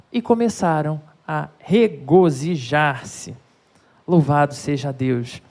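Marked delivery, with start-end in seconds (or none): none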